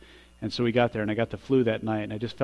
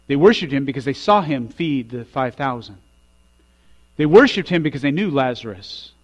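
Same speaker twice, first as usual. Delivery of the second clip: each They worshiped him line louder than the last; building refrain; 7 dB louder than usual. Acted. Preacher listing why the disciples worshiped, building louder. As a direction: stack the repetitions, climbing in force.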